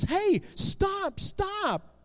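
high-pitched cry to stop; urgent calling out. Acted. Benjamin running after the men taking Jesus, urgent high cry.

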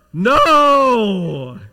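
big, drawn-out shout; emphatic shouted answer. Acted. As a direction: holler it like a whole class answering. Acting out the class's answer.

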